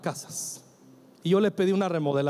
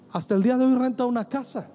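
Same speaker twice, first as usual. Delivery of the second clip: "Hasta el día de hoy renta una casa" higher and fast, with stress on "hoy"; emphatic; 6 semitones higher, faster than usual. Shown as a demonstration. Preacher repeating the point to the congregation, higher and fast with stress on "hoy". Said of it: "escuche bien".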